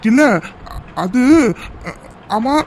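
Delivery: halting words with long gaps, then a question; stall, then blurt the question; hesitant fumbling. Acted. Husband struggling to question his cross wife, hesitant.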